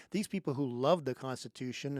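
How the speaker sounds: mock praise, dripping sarcasm; sarcastic. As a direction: sneer the praise, not meaning it. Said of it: "and I'm being very sarcastic".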